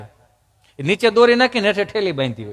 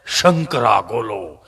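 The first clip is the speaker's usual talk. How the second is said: lightly voiced street vendor, lower and slow; mild low slow hawker call; 9 semitones lower, slower than usual. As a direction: call out the gola names like a lazy hawker. Imitating ice-gola vendor call.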